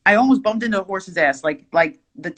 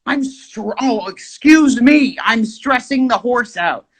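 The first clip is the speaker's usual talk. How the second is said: indignant disbelief; 6 semitones higher, 3 dB louder than usual. Retold or imitated. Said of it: "I'm like".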